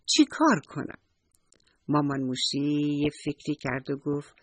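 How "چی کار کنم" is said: a touch higher and eager; eager little mouse. Acted. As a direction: ask eagerly like a small child. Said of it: "موشی با خوشحالی گفت". (با کنجکاوی و شوق)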